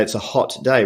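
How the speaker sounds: "hot" said the Australian way, open rounded vowel; Aussie "hot day" with a short rounded o; plain Australian "hot day"; Australian accent. Shown as a demonstration. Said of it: "we say".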